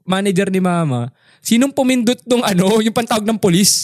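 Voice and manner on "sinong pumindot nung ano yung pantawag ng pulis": higher-pitched, mildly urgent questioning; retold manager's demand. Mother's manager asks who hit the police alarm, retold as a demand. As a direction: imitate a manager demanding the culprit.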